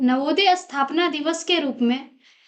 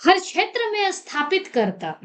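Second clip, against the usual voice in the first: measured, rhythmic recital with repeated lines; poem recitation; 3 semitones lower than usual. Acted. Student presents her own poem on Navodaya's foundation day, reciting. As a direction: declaim verse with rising openings and falling refrains.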